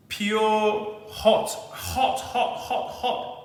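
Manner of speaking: gasping hot hot through a scalding sip; breathless, burning mouth from hot drink; mouth full of hot food. Real, not acted. Just sipped the hot punch.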